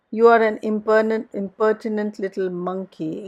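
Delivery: quick, loud burst of indignant surprise; surprised exclamation. A narrator's reading. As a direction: spit out the insult in astonishment. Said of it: "exclaimed Missus Linton in surprise".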